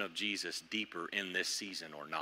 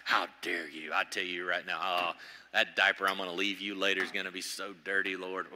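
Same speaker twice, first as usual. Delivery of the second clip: put-on grumpy baby; 5 semitones lower than usual. Toddler complaining to the Lord, mock sulky grumble. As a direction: play a sulky toddler threatening a dirty diaper. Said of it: "we're Tyler filling that complaint box".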